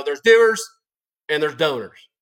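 mocking quote in a Southern accent. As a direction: put on a Southern drawl to ridicule him. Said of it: "I'm doing the Southern accent".

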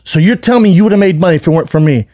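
heated challenge, retold; arguing. Comedian confronting his trainer over money, arguing. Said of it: "he starts arguing".

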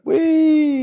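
high gleeful whee; playful whee. Pretend. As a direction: squeal it like on a ride. Cheering on screen stunt.

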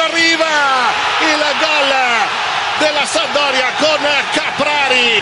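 excited goal call. Real, not acted.

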